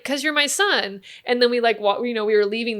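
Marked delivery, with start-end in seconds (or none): 0.0-1.0 slow, higher, each word set down; firm explanation. Retold or imitated. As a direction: spell it out to the boy. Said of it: "And I'm like".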